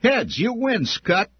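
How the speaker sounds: a high, loud sneering snarl. A narrator's reading. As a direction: spit it at the victim like a sidekick. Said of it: "Dill snarled".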